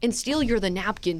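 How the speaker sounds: a polite cartoon dog asking for food; family voicing their golden retriever; Doug the dog voice. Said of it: "it's the Doug voice".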